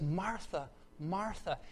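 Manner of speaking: softly repeated name, full of concern; gentle, caring call; Jesus. Acted. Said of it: "of care and concern".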